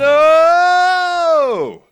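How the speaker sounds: high, loud mock scream of no; mock shout. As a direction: yell it like a panicked fan. Reacting in horror to a wrestler's challenge.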